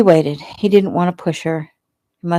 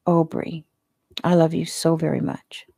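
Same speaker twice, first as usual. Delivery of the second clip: tender whisper. Acted. Tender declaration of love.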